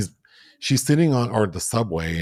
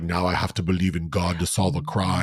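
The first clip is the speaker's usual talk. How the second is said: put-on Austrian accent; 3 semitones lower than usual. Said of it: "Arnold in that accent is like".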